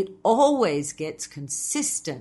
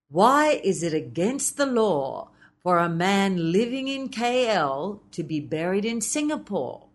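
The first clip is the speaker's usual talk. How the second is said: "K L" and "Singapore" leaned on, "living" skimmed over lightly; stress on K L and Singapore. Shown as a demonstration. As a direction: hit "K L" and "Singapore", slide past "living". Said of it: "skimmed over the word living and emphasized K L and Singapore".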